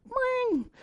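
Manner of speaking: high, soft phone-ring noise; quiet high-pitched ring; imitated phone ring. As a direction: mimic a ringing phone in a high voice. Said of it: "his phone goes".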